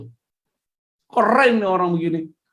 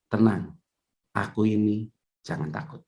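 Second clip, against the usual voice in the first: low, fading into a whisper; hushed reassurance; 10 semitones lower, 6 dB quieter than usual. Acted. Jesus whispering comfort to disciples in the storm, low and hushed. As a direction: breathe it softly to frightened men.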